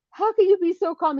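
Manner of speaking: high, loud incredulous question; agitated, high retold outburst; exasperated panic. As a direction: demand it in a mock panic. Acted panicked question to fiance.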